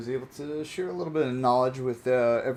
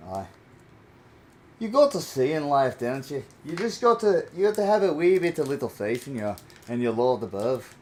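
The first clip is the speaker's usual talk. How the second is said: playful put-on Irish accent; a light Irish lilt, preaching faith; 5 dB louder than usual. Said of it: "I can do the Irish accent too".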